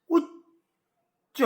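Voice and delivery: উচ্চ held very long and split into উচ্-চ; slow syllable demo. Shown as a demonstration. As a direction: stretch উচ্চ so both syllables ring out. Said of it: "দুটো ঝোঁক লাগবে". (উচ্চ খুব ধীরে দুই ঝোঁকে উচ্চারণ)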